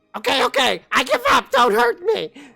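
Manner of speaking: very high, very loud, rough, scared goblin shout. Storyteller voicing a surrounded goblin calling out to everyone, shouting goblin voice. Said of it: "the goblin shouts towards all of you".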